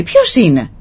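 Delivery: imitated echo of a called question; echo coming back. Mountains answer the startled boy, echoing. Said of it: "ξαναεπιστρέφει πάλι πίσω η φωνή".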